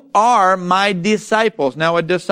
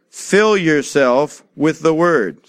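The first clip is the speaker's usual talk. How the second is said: slowly, each word weighted; leading the church in a slow call; slow and deliberate; 3 semitones lower, slower than usual. Shown as a demonstration. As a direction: give it to them slowly to repeat. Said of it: "Say it".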